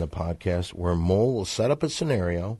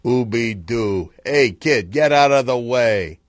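lightly voiced crooner, slow louder ooby doo; Sinatra impression; 2 semitones higher, 8 dB louder, slower than usual. Scene: Sinatra brushing off a kid, lightly crooning. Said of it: "You're Sinatra".

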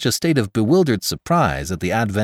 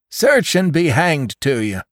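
put-on defiant old man; 9 semitones higher, 5 dB louder than usual. A narrator's reading. Jones defiant to the constable.

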